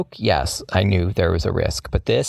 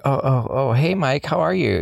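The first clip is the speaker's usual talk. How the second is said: higher-pitched, fake-casual greeting; playing it off; 6 semitones higher than usual. Caught-out teenager greeting the boss, trying to play it off. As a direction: act innocent, voice lifting as it goes. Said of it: "trying to play it off".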